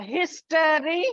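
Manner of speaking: HISTORY measured out in three beats; teacher sounding out each syllable of "history". Shown as a demonstration. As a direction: say "history" carefully as HIS-TO-RY. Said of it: "is trisyllable".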